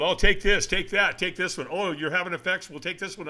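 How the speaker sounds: lightly voiced doctor pushing pills; breezy mock prescribing voice. Mocking a doctor handing out pills, light breezy voice. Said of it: "because they've been told".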